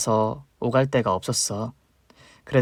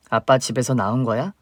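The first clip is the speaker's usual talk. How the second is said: normal talking voice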